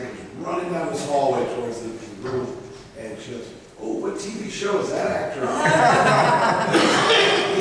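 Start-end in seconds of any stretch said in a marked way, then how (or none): 3.8-7.6 put-on high, slow, gushing old-lady voice; mock-swooning mom, much higher and louder; starstruck mom. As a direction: gush like a dazzled elderly mother. Mom quoted as awestruck fan.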